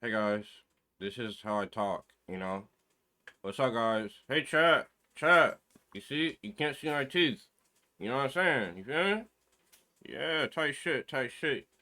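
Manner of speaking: ventriloquist voice, lips barely moving. Retold or imitated. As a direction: talk through still lips like a ventriloquist. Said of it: "you talk like a ventriloquist".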